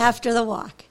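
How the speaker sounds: After punched firmly; stress on AFTER. Real, not acted. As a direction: hammer the word After.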